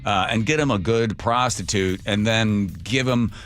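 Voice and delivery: hammed-up sleazy pitch to a buyer; mock Biden voice. Host mocking Biden offering his son, mildly hammed-up.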